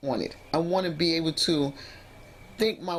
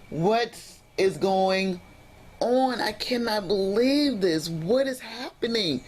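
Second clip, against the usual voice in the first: slow, raised-pitch disbelief; exasperated disbelief; 4 semitones higher, slower than usual. Retold or imitated. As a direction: draw each word out, overwhelmed. Acting out her emotional meltdown.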